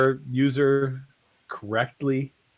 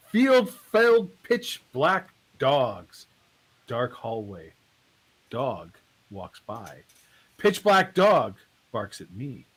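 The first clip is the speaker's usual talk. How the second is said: very slow, solemn recital with long pauses; spoken word poetry; much slower than usual. Acted. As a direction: dole it out phrase by phrase like a poet on stage. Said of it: "It feels like spoken word".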